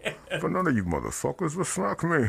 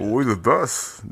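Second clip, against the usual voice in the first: A music producer's voice; 2 semitones lower, slower than usual. Retold or imitated. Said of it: "a music producer's voice".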